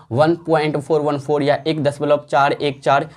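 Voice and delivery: teacher's slow digit-by-digit reading of "four one four". Shown as a demonstration. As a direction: slowly read "one point four one four", each digit separate. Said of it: "अलग-अलग करके पढ़ेंगे".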